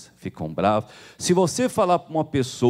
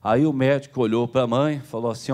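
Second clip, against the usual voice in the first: ordinary delivery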